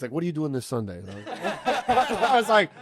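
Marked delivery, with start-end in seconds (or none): 0.1-1.0 light mock New York accent. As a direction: imitate a New Yorker inviting someone. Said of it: "like, New York accent".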